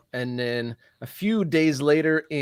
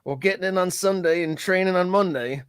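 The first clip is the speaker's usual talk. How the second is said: bad Scouse accent; 3 semitones higher, faster than usual. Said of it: "I'm tempted to do a bad Scouse accent here".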